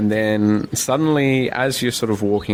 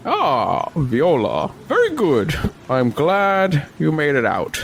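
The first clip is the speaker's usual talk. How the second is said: put-on a touch higher, slow sly old man; 5 semitones higher, slower than usual. Old man greets Viola, sly and slow. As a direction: greet her like a knowing old schemer. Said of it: "he's just like".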